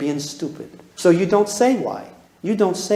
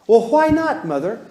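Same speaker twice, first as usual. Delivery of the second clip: put-on kid's whiny why; 3 semitones higher, 3 dB louder than usual. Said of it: "Listen to this".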